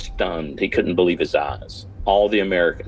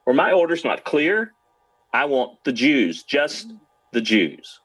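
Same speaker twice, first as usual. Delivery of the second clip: angry demand; 7 semitones higher than usual. Retold or imitated. Nazi major demanding the Jewish prisoners, enraged shout. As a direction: bark it up high like an enraged officer. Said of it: "screamed Ziegmann".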